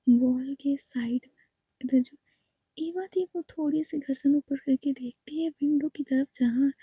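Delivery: hushed suspenseful storytelling; whispered story narration. A narrator's reading. Narrator tells the eerie scene in a hushed voice. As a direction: draw listeners in, half whispering.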